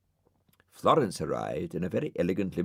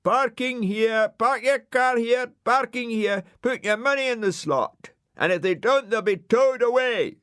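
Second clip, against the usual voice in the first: loudspeaker shout; 6 dB louder than usual. Acted. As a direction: bark it through a megaphone. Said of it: "He shouted into a loudspeaker".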